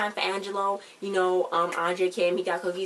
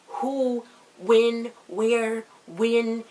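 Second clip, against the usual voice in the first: louder, higher, bewildered questions; confused rapid questions; 4 semitones higher, 5 dB louder, much slower than usual. Real, not acted. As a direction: fire off each word as if baffled. Confused viewer firing questions.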